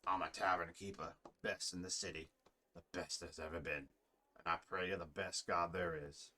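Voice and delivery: understated tavern keeper voice. Acted.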